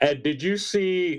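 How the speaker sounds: talking through a yawn. Turning to ed with a question, yawning while speaking. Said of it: "sorry, I was yawning there".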